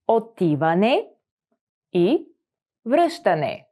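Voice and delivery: each word set apart by pauses. Shown as a demonstration. Teacher slowing down so students can repeat. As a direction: break the phrase into single words. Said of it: "split into words for repeating".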